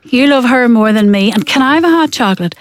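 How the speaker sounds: jealous little brother. Retold or imitated.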